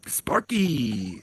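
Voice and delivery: a breathy whisper calling a friend; whispered name. Real, not acted. Host whispers to a muted guest, hushed.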